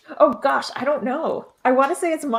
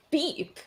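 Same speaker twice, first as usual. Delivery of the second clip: put-on old-timey beep; 4 semitones higher, 8 dB quieter than usual. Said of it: "old-timey sound beep".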